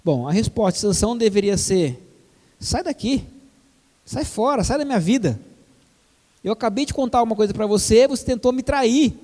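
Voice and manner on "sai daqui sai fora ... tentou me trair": high, heated get-out-of-here; indignant outburst. Pretend. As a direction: throw her out indignantly. Samson's imagined angry rejection.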